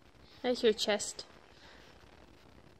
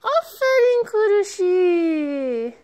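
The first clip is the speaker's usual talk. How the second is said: drawn-out praise; 4 semitones higher, 3 dB louder, slower than usual. Real, not acted. Praising the toddler.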